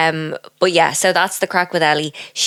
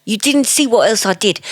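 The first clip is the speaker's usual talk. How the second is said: high, louder put-on voice; mock excuse-making girl; 9 semitones higher, 3 dB louder than usual. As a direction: play innocent in a squeaky tone. Voicing the girl's excuse.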